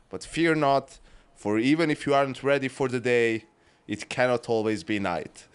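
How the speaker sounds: mock-solemn reading of the sign-off; reading the intended monologue. Shown as a demonstration. Co-host reading the scripted farewell aloud, mock-solemn. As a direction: read it like a grand farewell speech. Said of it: "So it was supposed to be".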